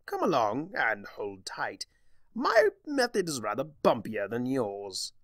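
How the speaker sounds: theatrical trickster inviting her along; lightly voiced mischievous Discord.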